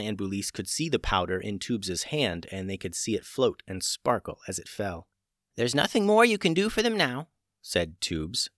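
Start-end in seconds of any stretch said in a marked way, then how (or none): 5.5-7.3 put-on high, calm old witch; a witch healer in charge. A narrator's reading. Old witch Tubes speaks.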